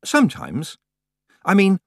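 bright start on "Oh, yes", then near the narrator's own voice; Tiffany's voice. A narrator's reading. Tiffany answers hesitantly.

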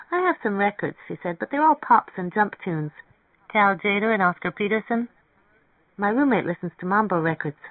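a hint of the story's curious woman; lightly voiced young woman character. Narrator voices Mary Ann.

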